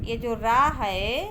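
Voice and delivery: slow, loud, drawn-out रा; stressed ra. Shown as a demonstration. Teacher showing pupils how to say रा, slowly. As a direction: lean on रा and hold it. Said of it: "इस तरीके से बोल".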